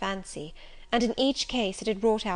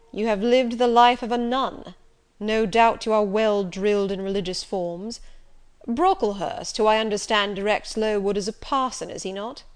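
Rochester, commanding; 7 dB louder than usual. Acted. Narrator voices Rochester.

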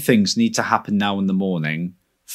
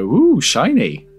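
easily dazzled; 7 semitones higher, 3 dB louder, slower than usual. Pretend. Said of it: "I would see it and go".

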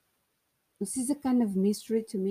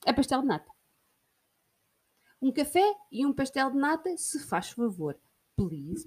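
acted café order. Acting customer ordering in Lisbon.

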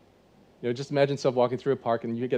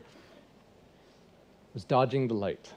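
slow punchline; much slower than usual. Shown as a demonstration. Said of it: "That's what I'm doing".

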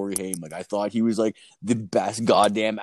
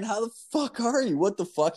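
very high, excited fanboy squeal; starstruck gush; 12 semitones higher than usual. Retold or imitated. Meeting a rock band's guitarist at the door, fanboy excitement. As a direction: gush like a thrilled fan.

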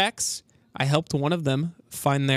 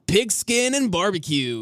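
hype announcer voice; 3 semitones higher, slower than usual. Pretend. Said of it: "That was really good".

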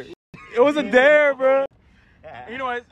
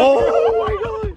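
laughing; 14 semitones higher, 5 dB louder, much slower than usual. Real, not acted. Reacting to embarrassing story.

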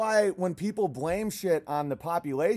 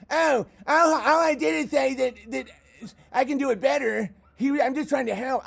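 mock whiny troll; 7 semitones higher than usual. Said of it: "you're like".

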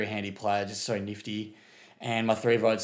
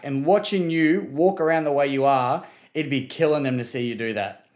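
angry rant; 2 semitones higher than usual. Acted. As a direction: lay into him like a fed-up fan. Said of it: "that's just a little rant I've got for Jack".

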